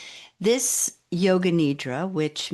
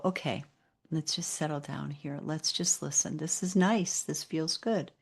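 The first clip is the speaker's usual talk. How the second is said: settling inner voice; 5 dB quieter than usual. Acted. Mind talking itself into settling, soft and soothing. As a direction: voice the mind easing itself down, softly. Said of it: "the mind will just sort of go".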